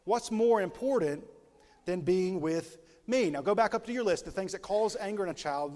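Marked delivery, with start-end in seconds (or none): 0.0-3.3 put-on child's plea. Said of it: "they begin to say".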